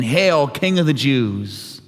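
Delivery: slow, sneering "Hail"; mocking. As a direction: drag it out to ridicule him. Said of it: "and mocked him".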